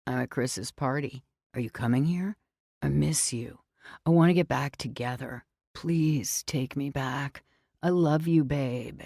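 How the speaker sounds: loose, tipsy pleading to the ex; drunk slurring. Acted. Drunk ex begging her to take him back, slurring. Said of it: "You're slurring".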